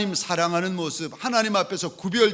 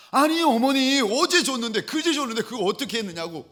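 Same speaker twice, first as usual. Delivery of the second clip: upset protest; 8 semitones higher, 4 dB louder than usual. Retold or imitated. Son protests mother's giving.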